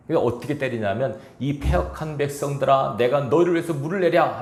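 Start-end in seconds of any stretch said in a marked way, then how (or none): 1.4-4.4 a touch louder, mock-angry cry of 이 패역한 백성들아; Moses, angry, rebuking the people before striking the rock; angry retold rebuke. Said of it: "화가 난 상태에서". (화가 나서 꾸짖는 외침)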